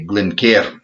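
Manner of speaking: attempted Scottish pronunciation of Glencairn; amateur's best go at Scottish; fake Scottish accent. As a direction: say Glencairn like a Scot. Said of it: "fake a Scottish accent as best I can".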